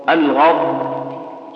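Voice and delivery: "الغض" dragged out very slowly, the ض sound running on; flowing dad. Shown as a demonstration. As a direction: stretch the ض in "الغض" so the voice flows. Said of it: "شوف كيف الصوت يجري".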